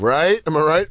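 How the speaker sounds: pushy rising questions; nudging. Shown as a demonstration. Host showing a tone that seeks agreement, nudging. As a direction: fish for agreement. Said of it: "and then you're like".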